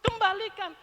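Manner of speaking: God reproaching people who withhold the tithe; voicing God. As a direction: speak as God scolding firmly. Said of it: "kata Tuhan".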